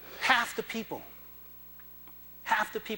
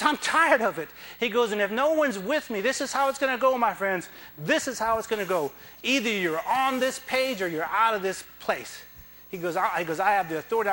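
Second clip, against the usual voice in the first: defiant leader; 2 semitones higher, 4 dB louder than usual. Acted. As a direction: lay down the law to the crowd. Joshua voiced as fed-up leader.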